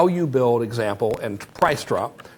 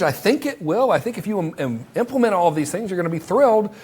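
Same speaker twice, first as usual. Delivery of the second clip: higher, earnest sales-pitch voice; a lightly voiced salesman, higher; pitch demo; 5 semitones higher than usual. Shown as a demonstration. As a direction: reassure the buyer like a friendly closer. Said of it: "one of the ones I like to do is like".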